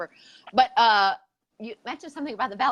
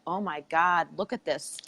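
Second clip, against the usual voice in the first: sarcastic excitement; 3 semitones lower, 3 dB louder than usual. Pretend. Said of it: "Nobody's clicking on that being like".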